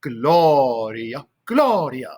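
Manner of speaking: stretched GLO-ria, then a shorter GLO-ria; first-syllable stress. Shown as a demonstration. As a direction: demonstrate Gloria with weight on each GLO. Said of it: "So again, listen".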